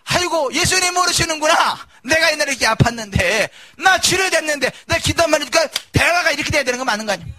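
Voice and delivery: eager testimony. Retold or imitated. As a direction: burst out joyfully, then rattle on fast at the end. Acting out a healed believer.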